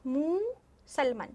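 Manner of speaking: मुसलमन slowly with a short मन; wrong form read out. Shown as a demonstration. Teacher re-reading the pupils' wrong मुसलमन slowly. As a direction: drag मुसलमन out, short ending. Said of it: "होता क्या है, मुसलमान".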